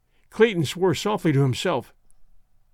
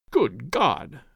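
low horrified exclamation, only lightly hushed; understated horror, pitch dropping low; horrified whisper; 5 semitones lower than usual. A narrator's reading. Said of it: "whispered Clayton in a horrified tone".

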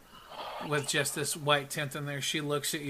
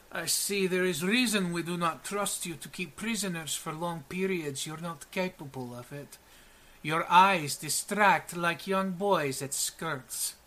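put-on lightly accented, measured giant cat woman; a touch of a disdainful warrior; 3 semitones higher than usual. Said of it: "she goes".

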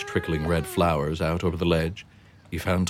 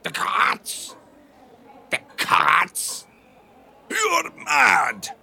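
much higher, rising panic into a shout; alarmed Mario; 13 semitones higher, 3 dB louder, much slower than usual. Acted. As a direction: shriek in horror at the idea. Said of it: "Then Mario spoke up".

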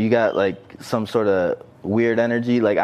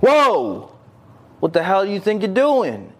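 mock outraged shout; 9 semitones higher than usual. Mimics offended people reacting.

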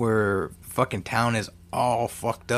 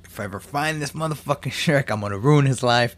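mock vow of revenge, getting louder at the end; vengeful threat; 4 semitones higher, 6 dB louder than usual. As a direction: swear revenge with a rising voice. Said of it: "he's like".

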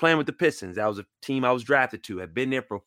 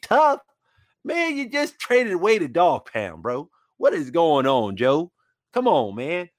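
exasperated protest; 5 semitones higher than usual. Retold or imitated. Arguing back at Joe.

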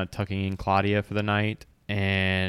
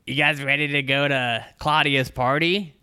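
mimicked player voice; 5 semitones higher than usual. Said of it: "I'm gonna mimic your voice for you".

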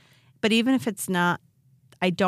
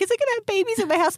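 high, fast mock panic; worked-up panic; 13 semitones higher, much faster than usual. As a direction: imitate a freaked-out homeowner. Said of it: "she gets real worked up real easy".

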